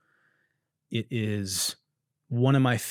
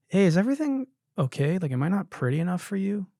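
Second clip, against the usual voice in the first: put-on higher, quicker anxious girlfriend; worried girlfriend voice; 6 semitones higher, faster than usual. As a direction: play the insecure partner asking fast.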